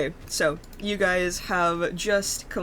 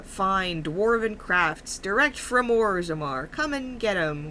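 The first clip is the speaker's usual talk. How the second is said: put-on Midwestern accent; 3 semitones higher than usual. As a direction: call out wares with a Midwestern accent. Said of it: "like, Midwestern accent".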